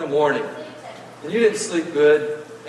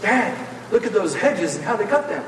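put-on higher, wide-eyed childish wonder; excited kid; 5 semitones higher than usual. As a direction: gasp at everything like a kid at the gate. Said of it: "You start going".

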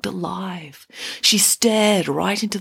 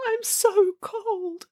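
put-on high, slow, plaintive child; pitiful wail; 14 semitones higher, much slower than usual. A narrator's reading. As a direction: draw it out like a freezing girl. Freezing girl laments.

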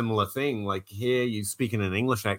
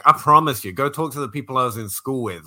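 louder, insistent protest; mock protest; 3 semitones higher, 6 dB louder than usual. Podcaster retorts to fans calling him smart, loud mock protest. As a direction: swear to them you're not smart, punching the first words.

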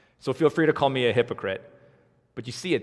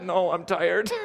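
laughing; 7 semitones higher, slower than usual. Retold or imitated. Laughing at the boss's question.

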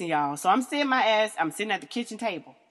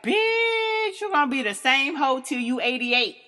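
teasing friend; 4 semitones higher, 5 dB louder than usual. Retold or imitated. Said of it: "they're like".

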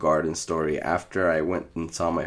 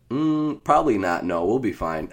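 high drawn Mm, then a casual laugh; breezy dismissal; 4 semitones higher, 3 dB louder than usual. Retold or imitated. Teen telling brother they can skip medication, laughing it off. Retelling his careless reply.

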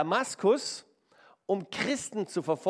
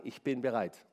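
quiet vow; 8 semitones lower, 5 dB quieter than usual. Shown as a demonstration. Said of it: "Ich muss sagen".

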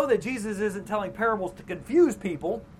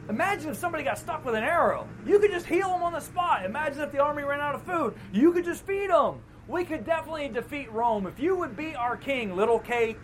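excited pitch; 4 semitones higher than usual. Retold or imitated. Voicing crowd's scheming.

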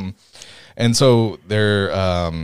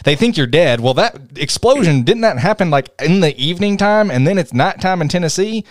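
higher, put-on Southern twang; Southern accent; 4 semitones higher than usual. Picking at the newspaper timeline, in a Southern accent. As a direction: question it as a puzzled Southerner. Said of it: "I really like using a Southern accent".

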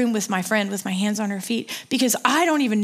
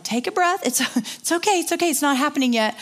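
higher-pitched mild soothing of a friend; retold coaxing, lifted in pitch; reassuring; 5 semitones higher than usual. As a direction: gently talk a panicking friend down. Soothing panicking friend in story.

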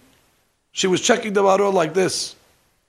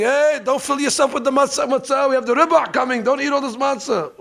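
mock screaming lady; 5 semitones higher than usual. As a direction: imitate a lady yelling across the table. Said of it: "And the lady screaming".

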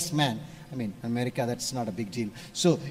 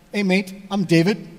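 light Australian; 2 semitones higher, 5 dB louder than usual. Retold or imitated. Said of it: "they have the mate thing".

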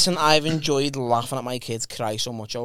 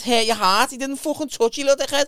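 mock mum telling off; 8 semitones higher than usual. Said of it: "And she went".

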